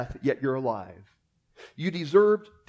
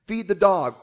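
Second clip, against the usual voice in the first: lightly acted parent command, higher pitched; parent giving orders; 4 semitones higher, 4 dB louder than usual. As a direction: order a child to do a chore. Parent ordering children about.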